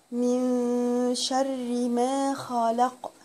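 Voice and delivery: very slow drawn-out من شر; slow chanted model; slow recitation. Shown as a demonstration. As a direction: stretch each syllable like recitation.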